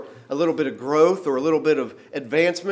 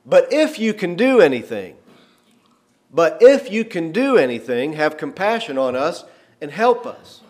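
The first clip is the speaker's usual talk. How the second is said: pleading father; 4 dB louder than usual. Retold or imitated. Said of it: "what he just said to the Son of God".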